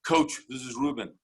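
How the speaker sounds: mock winded radio call; puffing a little, as if just off a run; out of breath. Luger calling coach by walkie-talkie, out of breath. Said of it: "out of breath".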